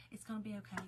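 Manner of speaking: soft, whispered retold comfort; hushed reassurance. Retold comforting of frightened father-in-law.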